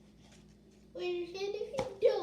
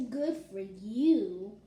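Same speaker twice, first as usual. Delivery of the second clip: 1 dry reply; 5 semitones lower, 5 dB louder, slower than usual. Acted. Child voices the pig's reply.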